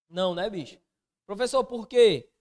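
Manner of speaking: a touch of a curious student; playing the student. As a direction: ask it as the puzzled pupil. Teacher voices student question.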